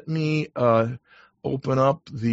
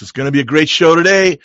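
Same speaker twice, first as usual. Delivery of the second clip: excited; 3 semitones higher, 7 dB louder, much faster than usual. Real, not acted. Host opening the show.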